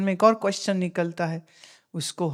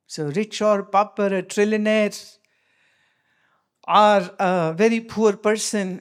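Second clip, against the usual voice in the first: very slow, measured English teaching; slow deliberate explanation; much slower than usual. Acted. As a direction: spell it out slowly for the listeners. (धीमे, ठहर-ठहरकर अंग्रेज़ी में समझाना)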